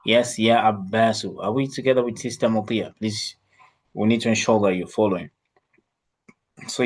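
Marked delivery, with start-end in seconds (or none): 0.1-1.4 Ya Abbasu said slowly, long ya, doubled b; slow model reading. Shown as a demonstration. Teacher models the vocative to a student, slow. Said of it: "because it is initially Abbasun".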